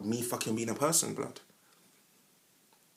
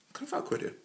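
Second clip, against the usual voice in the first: whisper; 14 semitones higher, 9 dB quieter, faster than usual. Pretend. Whispered self-admiration.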